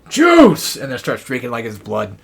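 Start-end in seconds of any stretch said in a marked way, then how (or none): 0.1-0.8 sudden high-pitched cry; Willie's shout. Retold or imitated. Willie grabbing an arm to drink from, shouting greedily. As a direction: yell it high and loud, one burst. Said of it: "and he's like".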